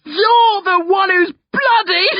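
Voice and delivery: high, loud taunt breaking into cackles; cackling. A narrator's reading. Brother taunting blood-covered sister, cackling. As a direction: crow it slowly, then cackle. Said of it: "I cackle".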